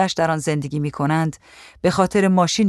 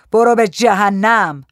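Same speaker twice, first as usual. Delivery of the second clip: slow, loud, drawn-out yell; angry shout; 3 semitones higher, 5 dB louder, slower than usual. A narrator's reading. Gaddafi yelling at Aisha to get out, slow angry shout. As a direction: shout them away, stretching each word. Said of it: "قذافی فریاد زد".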